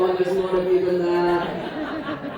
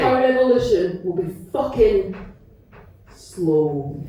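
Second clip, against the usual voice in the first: poem ending; 3 semitones lower than usual. Acted. Poem's closing line.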